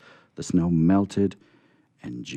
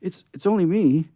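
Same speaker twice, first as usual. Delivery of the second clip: timid answer; 12 semitones higher, 7 dB louder than usual. Acted. Timid scarecrow answers Santa.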